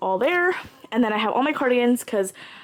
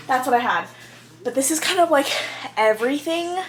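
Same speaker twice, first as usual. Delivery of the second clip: winded from running the stairs; out of breath; 4 semitones higher than usual. Real, not acted. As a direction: talk while catching your breath. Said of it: "that's why I'm out of breath".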